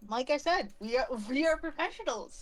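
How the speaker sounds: dry, lightly sarcastic claim. Real, not acted. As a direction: say it with a touch of sarcasm. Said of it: "Note the sarcasm".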